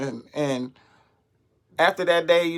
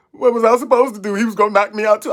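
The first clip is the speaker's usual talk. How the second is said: mock girl's excuse; 5 semitones higher, 3 dB louder, faster than usual. Teller voices girl's defense.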